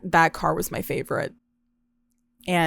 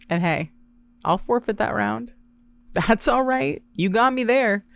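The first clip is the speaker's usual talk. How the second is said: mocking taunt; 3 semitones higher than usual. Taunting drunk girl, mom for mom.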